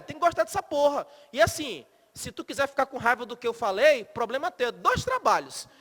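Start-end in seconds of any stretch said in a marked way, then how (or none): none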